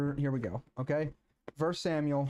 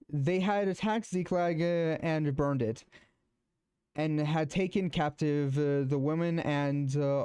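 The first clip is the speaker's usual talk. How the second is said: slightly raised scripture reading voice; Bible reading. Acted. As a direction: read the passage aloud to the group. Reads First Samuel aloud.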